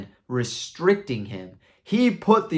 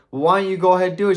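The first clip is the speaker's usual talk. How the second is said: fast, loud, high-pitched dare; impatient challenge; 9 semitones higher, 8 dB louder, much faster than usual. Retold or imitated. Wife challenges knight to remove armor, impatient. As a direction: rattle off the challenge loudly.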